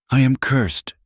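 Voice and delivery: despairing weep. A narrator's reading. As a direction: let the words break out of her grief. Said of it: "she wept".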